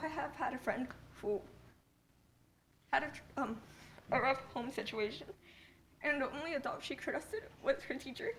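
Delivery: crying, voice full of tears. Handed a Kleenex after trying not to cry, crying while speaking. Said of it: "I don't know why I'm crying".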